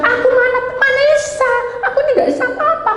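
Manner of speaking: high, fast, laughing whine; mock the friend who says she can do nothing; high whiny mock lament, half laughing; whiny helpless friend.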